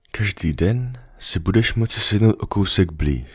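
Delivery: the fox patiently explaining to the little prince; lightly voiced fox.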